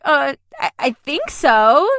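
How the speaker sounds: unsure, halting reply with drawn-out words; hesitant. Retold or imitated. Nervous actor answering the casting director, hesitant. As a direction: answer doubtfully, voice lifting as you stall.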